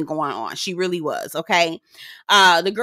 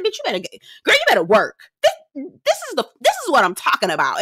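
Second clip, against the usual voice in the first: cheering her on; 5 semitones higher, faster than usual. Retold or imitated. Cheering Nicole's red dress.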